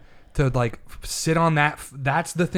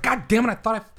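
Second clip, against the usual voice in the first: exasperated outburst, raised pitch at first; 3 semitones higher than usual. Retold or imitated. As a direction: vent mild exasperation at someone you followed. Exasperated reaction to political posts.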